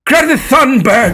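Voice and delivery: high, slow shouted name; loud shout. Acted. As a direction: call it out big and slow.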